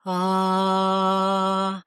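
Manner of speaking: a strong buzzing ah while massaging. Shown as a demonstration. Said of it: "make some sound".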